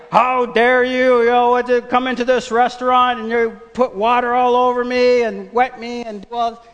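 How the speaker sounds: high, loud indignant customer; mock outrage. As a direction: play the offended diner, hammed up. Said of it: "Are we gonna be like".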